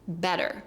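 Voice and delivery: "better" with stressed first E and soft D; double T as D. Shown as a demonstration. Teacher repeating the example, "better" with flapped T. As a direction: stress the start of "better", soften TT to D. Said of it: "the double T turns into a D".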